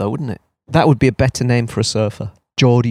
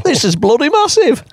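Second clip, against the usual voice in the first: mock small surfer; 14 semitones higher, 3 dB louder than usual. Joking about tiny rider on board.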